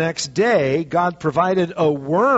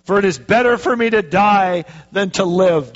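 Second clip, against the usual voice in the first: whiny Jonah; 4 dB louder than usual. Acted. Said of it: "Listen to what Jonah's saying".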